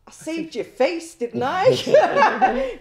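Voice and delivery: high, loud, laughing comeback; laughing retort. Retold or imitated. Officer laughs back at the humiliated prisoner. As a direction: toss it back at him with a laugh. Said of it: "And I'm like".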